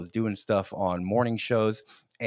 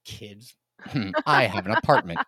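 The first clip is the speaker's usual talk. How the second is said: wounded ego. Retold or imitated. Young man told he's too young, mock wounded pride. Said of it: "I was a little ego hit".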